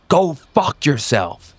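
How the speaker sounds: slow, high, cutting brush-off; dismissive snap. Acted. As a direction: drag out the insult with contempt. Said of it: "turns around and says".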